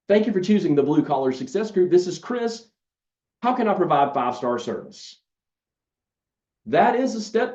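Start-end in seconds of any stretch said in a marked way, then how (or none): 0.1-5.2 bright, eager receptionist answering the phone; enthusiastic phone greeting. Shown as a demonstration. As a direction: greet the caller like you mean it. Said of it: "sounds a little something like this".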